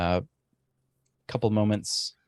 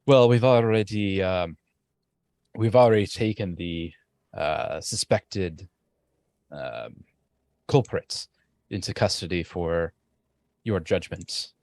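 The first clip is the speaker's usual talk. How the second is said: lightly voiced soldier reporting trouble, halting; troubled soldier Thornton. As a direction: hesitantly bring bad news to your captains. Game master voices Thornton reporting.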